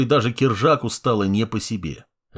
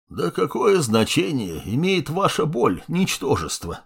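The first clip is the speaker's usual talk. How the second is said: disdainful; 4 semitones higher than usual. Acted. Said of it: "брезгливо бросил добрый дедушка".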